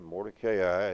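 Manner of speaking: "Mordecai" as mor-de-KAY-eye; long A before the final "eye" in "Mordecai"; marked pronunciation. Shown as a demonstration. Preacher showing how it's marked here, "Mordecai" with a long A. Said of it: "is the way it's marked here".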